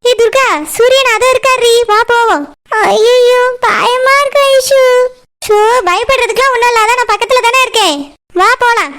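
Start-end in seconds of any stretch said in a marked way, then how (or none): 2.9-4.8 drawn-out frightened plea; slow timid fear. Acted. Durga about to meet Suriyan, slow scared plea. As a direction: stretch it out like you want to hide.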